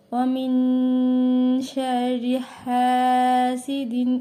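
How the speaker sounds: very slow, drawn-out recitation. Shown as a demonstration. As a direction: chant each word slowly. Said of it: "recites the ayah". (ধীর তিলাওয়াত)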